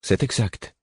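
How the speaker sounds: conciliatory. A narrator's reading. Teacher soothing his offended pupil, conciliatory. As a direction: agree gently to calm him down. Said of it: "fis-je d'un ton conciliant".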